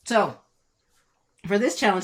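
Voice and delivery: talking with chocolate in mouth; mouth full. Real, not acted. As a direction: speak around a mouthful. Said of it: "I still got chocolate in my mouth".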